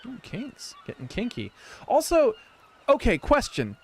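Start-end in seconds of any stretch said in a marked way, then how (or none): 0.1-1.5 breathy mock-sultry whisper; suggestive whisper. Joking about kinks in a suggestive whisper. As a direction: tease the word like a dirty secret.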